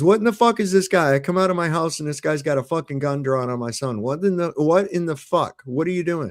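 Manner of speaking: high-pitched disbelieving complaint; retold indignant protest. Father complaining to police supervisor about gun, retold indignant protest.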